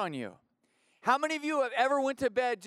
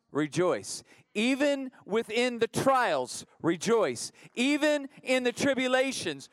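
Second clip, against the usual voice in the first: building preacher's refrain; 2 semitones higher, 3 dB louder than usual. Real, not acted. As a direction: drive each refrain harder, dropping on "rejoice".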